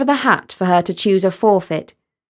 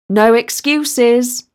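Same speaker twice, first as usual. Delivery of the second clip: firm; 2 semitones higher, much slower than usual. Acted. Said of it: "said Basil".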